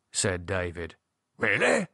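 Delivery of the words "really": high-pitched startled question; surprised. A narrator's reading. Gerald taken aback by David's answer, surprised.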